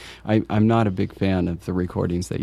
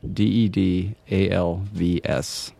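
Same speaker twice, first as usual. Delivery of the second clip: spelling it out; slower than usual. Shown as a demonstration. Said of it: "the U is spelled with a V".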